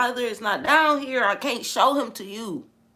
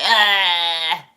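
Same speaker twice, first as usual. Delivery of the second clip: mock scream; 6 dB louder than usual. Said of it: "they mocking him like".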